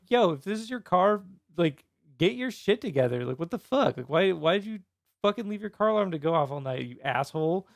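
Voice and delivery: mildly heated mock rant; aggressive retelling. Angry neighbor retelling a post to the car's owner, mildly aggressive. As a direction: scold the car owner, a touch aggressively. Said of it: "I didn't say it so aggressively".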